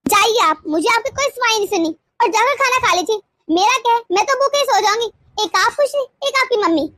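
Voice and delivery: offended, martyred huff; huffy dismissal. Acted. Wife sending husband to eat without her, huffy dismissal. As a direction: send him off in a sulk.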